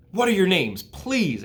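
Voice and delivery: Wilbur voice. A narrator's reading. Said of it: "trembling with joy".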